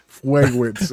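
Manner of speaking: "fragrance" with the r softened to a w, "fwagwence"; kid's lisp. Retold or imitated. Man mimicking his neighbor's kid, "fragrance" with w for r. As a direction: say "fragrance" like a little kid who can't do R. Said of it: "he talks like that".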